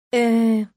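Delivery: drawn-out hesitant uh. Acted. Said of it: "протянула я".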